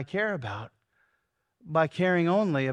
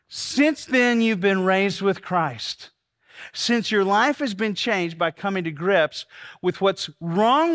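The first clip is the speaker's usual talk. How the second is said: loud, slow, emphatic preaching; fervent preaching; 3 dB louder, slower than usual. Acted. Pastor preaching to his congregation, loud and slow. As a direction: drive each phrase home to the room.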